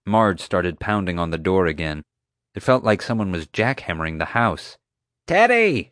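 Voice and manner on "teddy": a loud high roar of his name. A narrator's reading. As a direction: bellow it across the house. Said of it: "she roared".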